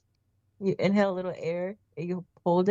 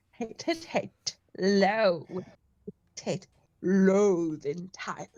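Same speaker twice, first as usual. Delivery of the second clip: Grinch voice; slower than usual. Shown as a demonstration. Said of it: "The Grinch".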